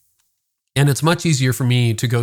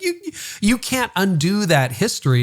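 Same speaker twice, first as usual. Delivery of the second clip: firm reply; 10 semitones higher than usual. Retold or imitated. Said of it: "she's like".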